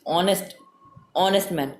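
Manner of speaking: honest said as o-nest with no H sound; silent h. Shown as a demonstration. Teacher showing students that honest begins with o, not h. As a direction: drop the h in honest and start on the o. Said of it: "H is not pronounced".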